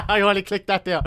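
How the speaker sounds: real helpless laughter through words; high, loud, cracking up while talking; laughing realisation. Real, not acted. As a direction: blurt it out through big laughs.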